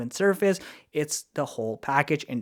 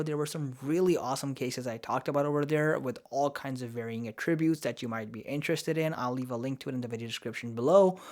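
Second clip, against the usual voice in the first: wobbly speech from a sore mouth; talking carefully after tooth removal. Real, not acted. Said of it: "sorry for the wobbly talking".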